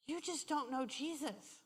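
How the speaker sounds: very soft, tender retold counsel; gentle first telling. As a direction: say it quietly, as comfort. Gently counsels the crying woman.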